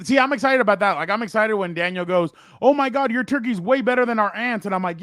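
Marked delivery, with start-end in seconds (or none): 2.6-4.6 higher-pitched mock gushing; lightly acted, impressed exclamation; gushing praise. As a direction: imitate someone raving about the food. Quotes Daniel praising the turkey.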